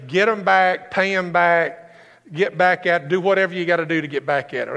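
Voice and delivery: lightly voiced worldly tempter; tempting world voice. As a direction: egg them on to revenge. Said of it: "The world's voice is gonna say".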